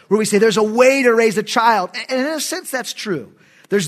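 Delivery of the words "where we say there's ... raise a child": "way" emphasized within a loud phrase; stress on "way". Shown as a demonstration. Preacher showing the common reading of Proverbs, stress on "way". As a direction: lean on the word "way". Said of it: "put the emphasis so often on the word way".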